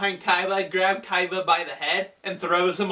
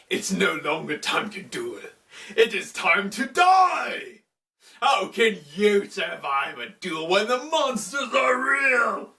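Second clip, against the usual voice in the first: Anubis. Retold or imitated. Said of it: "we hear Anubis's voice".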